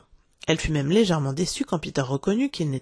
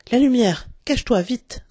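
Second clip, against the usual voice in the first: raised, higher-pitched order; hurried alarm, louder voice; urgent command; 6 semitones higher, 5 dB louder than usual. A narrator's reading. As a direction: order them to hide at once. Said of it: "commanda John".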